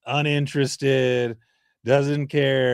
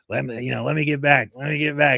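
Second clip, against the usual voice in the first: lightly voiced Serbian impression; a hint of a put-on Serbian accent; mock-pleading, lightly accented player; Jokic voice; 3 semitones higher than usual. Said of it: "Is that the Jokic voice?".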